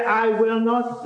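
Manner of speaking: high, slow mock-defiant "I will not"; the stubborn rebel, lightly played; drawn-out defiance, a touch hammed; defiant refusal. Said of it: "He didn't stand up and say".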